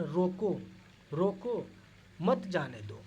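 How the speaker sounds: रोको, then a pause before मत जाने दो; pause after roko. Shown as a demonstration. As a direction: break after "रोको" so it means stop him. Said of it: "अब बोल दिए आपको, जैसे रोको".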